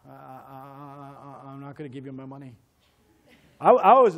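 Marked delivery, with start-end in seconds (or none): 0.1-2.5 nervous refusal. Retold or imitated. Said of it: "And I go".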